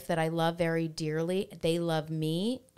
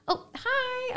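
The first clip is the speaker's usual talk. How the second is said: the other mom. Retold or imitated. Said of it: "she's like".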